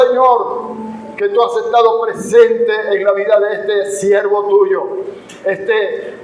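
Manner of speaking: measured public prayer in long phrases; earnest prayer. Real, not acted. Preacher thanking God for the morning's word, earnest prayer. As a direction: give thanks to God before the congregation.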